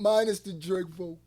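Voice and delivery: mimicking a rapper's cadence; the rapper's cadence. Host echoes the rapper's line, imitating his cadence. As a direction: echo his phrase in his cadence. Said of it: "It's something about the cadence in which he talks".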